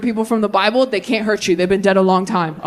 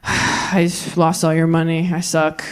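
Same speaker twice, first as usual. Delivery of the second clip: sheepish son; 5 semitones lower, slower than usual. Retold or imitated.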